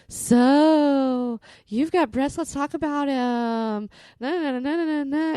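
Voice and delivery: loud, high, hammed-up radio host; mock a pushy talk radio host, cranked way up; fake radio voice. Guest mocking talk radio hosts, loud high fake radio voice. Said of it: "a fake radio voice".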